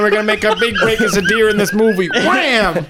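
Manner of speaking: put-on high excited kid voice; eager little kid, laughing. Kids in deer costumes voiced.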